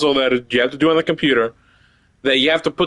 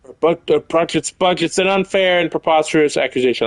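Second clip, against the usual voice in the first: hammed-up French accent in a changed voice; letter read in a mock French accent; Frenchy accent. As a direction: do your worst French accent. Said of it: "I tried doing Frenchy".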